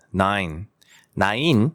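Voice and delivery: "nine" as one smooth falling glide; correct one syllable. Shown as a demonstration. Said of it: "nine이 아니라 nine".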